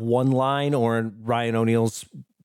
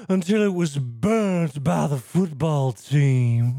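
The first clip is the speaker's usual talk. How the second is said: put-on Southern accent; slower than usual. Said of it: "Steve, your Southern accent is".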